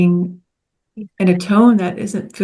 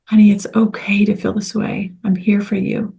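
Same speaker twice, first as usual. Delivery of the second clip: tender whisper to yourself. Shown as a demonstration. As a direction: whisper it gently as to a dear friend. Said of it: "Speak to yourself as if you are a dear friend".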